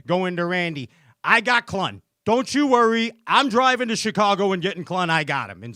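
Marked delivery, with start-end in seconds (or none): 1.2-5.6 raised, louder mock-eager boast; excited boast. Recalling his boast to Randy about getting a guest, excited. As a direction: act out your own eager reassurance.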